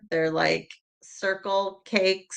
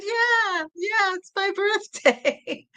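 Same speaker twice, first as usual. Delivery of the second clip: high, slow words through a laugh; laughing retort; 14 semitones higher, much slower than usual. Retold or imitated. Telling her son it's her birthday, high and laughing. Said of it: "I said".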